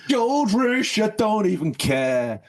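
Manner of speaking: high, slow, giddy gushing; overexcited rant. Real, not acted. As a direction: gush like you've had way too much coffee. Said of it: "coffee's kicked in".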